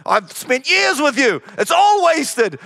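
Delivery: hammed-up despairing rebuke; mock berating. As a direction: pretend Jesus losing patience, drawn out. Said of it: "never berated them and said".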